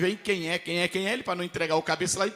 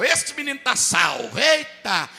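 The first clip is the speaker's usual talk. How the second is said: imitating the pastor; 6 semitones higher, 4 dB louder, slower than usual. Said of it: "o pastor saiu dizendo".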